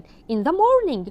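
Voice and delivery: In the morning stretched out slowly and loud; slow review. Shown as a demonstration. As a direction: drill the phrase slowly and clearly. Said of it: "slow review".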